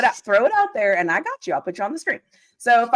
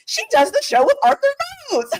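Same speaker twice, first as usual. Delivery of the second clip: imitating fans. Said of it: "And they're like".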